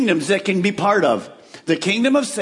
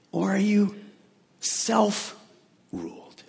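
whisper; 6 dB quieter, much slower than usual. Acted. Soft pointed question to congregation.

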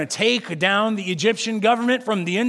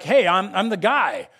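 put-on rally the crowd with boyish eagerness; mock-heroic call to follow; eager rallying call; 2 semitones higher than usual. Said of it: "he's like".

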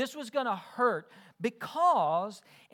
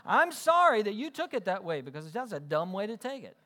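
non-apology apology; 4 dB louder than usual. Retold or imitated. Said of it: "That's basically what the non-apology is".

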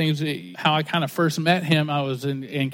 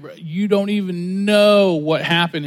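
slow, stretched-out amazement; amazed; 4 dB louder, slower than usual. Retold or imitated. Preacher retells his reply to the man who prayed, amazed. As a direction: drag it out, astonished.

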